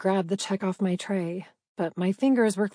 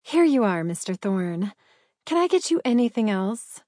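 put-on sugary baby voice, a little louder; 4 dB louder than usual.

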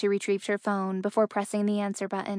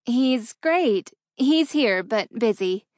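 forced airy; 3 semitones higher, 6 dB louder, slower than usual. A narrator's reading. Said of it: "struggled to maintain an airy tone".

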